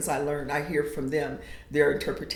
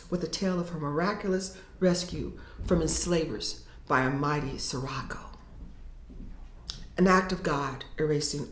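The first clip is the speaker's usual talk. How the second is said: poem reading. Acted. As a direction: read it like a poet performing her own work. Poet reads her poem aloud.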